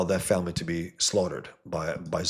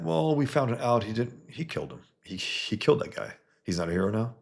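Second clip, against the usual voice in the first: mock indignant critic; 5 semitones higher than usual. Mocking critics' complaint.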